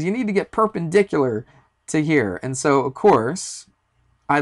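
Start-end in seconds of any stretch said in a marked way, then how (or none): 0.0-2.4 higher-pitched imitation of a yelled instruction; mock yell. Ranger correcting a climber's position on the rope, mock yelling. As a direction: lightly mimic a shouted order. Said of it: "was even yelling math words at me".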